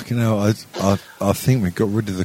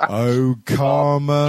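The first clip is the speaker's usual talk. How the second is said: gloating; 3 semitones higher, much slower than usual. Pretend. Gloating slow karma.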